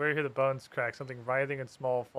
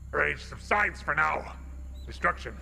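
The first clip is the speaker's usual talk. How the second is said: gravelly dragon voice. Acted. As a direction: rumble it out like a great dragon. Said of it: "kind of gravelly dragon voice".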